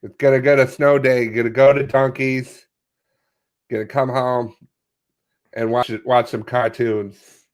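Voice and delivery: lightly put-on Boston accent. Co-host imagines a snow day, mock Boston accent. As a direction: play a Bostonian with long vowels. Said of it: "Boston, the long eyes".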